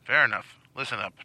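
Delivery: put-on old man voice. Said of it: "you're right back to where you were".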